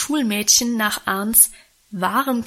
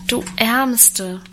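ordinary delivery

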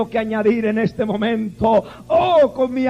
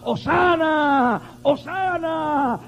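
slow, lightly raised mock cheer; crowd's acclaim; 4 semitones higher, much slower than usual. Crowd welcoming Jesus into Jerusalem, mild slow acclaim. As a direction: call it out like the palm-waving crowd. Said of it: "la gente gritaba".

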